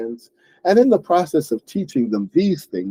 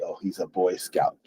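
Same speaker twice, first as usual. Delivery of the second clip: annoyed; 6 semitones lower, 9 dB quieter than usual. Shown as a demonstration. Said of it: "as if we are annoyed by how good they are".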